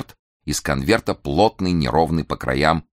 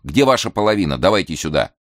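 impatient; 3 semitones higher, 3 dB louder than usual. Acted. Impatient demand.

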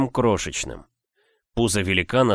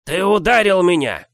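squeaky indignant giant; 10 semitones higher, 6 dB louder than usual. Acted.

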